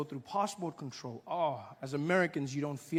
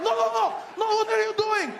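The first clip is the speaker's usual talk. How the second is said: very high, loud shocked shriek; shrieking guards; 5 dB louder than usual. Retold or imitated. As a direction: panic like scandalised guards. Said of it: "they were like".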